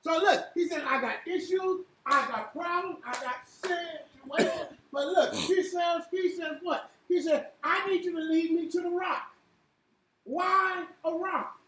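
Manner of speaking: preacher expounding scripture phrase by phrase; emphatic preaching. Acted. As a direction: draw out the quoted verse, then punch the last words. Preaches on the psalm.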